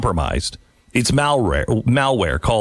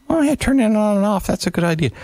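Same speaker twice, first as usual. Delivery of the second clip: sarcastic mock agreement; 10 semitones higher than usual. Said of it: "I'm not gonna just take that one and just say".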